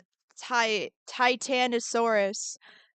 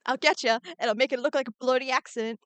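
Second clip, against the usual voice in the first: a badly faked British-style accent, a bit quicker; terrible fake accent; faster than usual. Streamer threatens an art fight rival in a bad mock accent. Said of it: "My accent is terrible".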